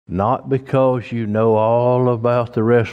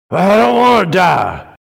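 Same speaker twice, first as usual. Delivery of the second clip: higher, louder mock protest; mock scared plea; 9 semitones higher, 6 dB louder than usual. Churchgoer afraid of dying, mock scared plea. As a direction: play a frightened churchgoer. Congregant fearing death, voiced.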